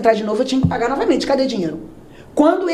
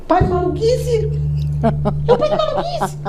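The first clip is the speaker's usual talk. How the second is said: high, strained plea to stop; squeaky panicked protest; 11 semitones higher than usual. Retold or imitated. Hiding girl protesting to her cousin in a high panic.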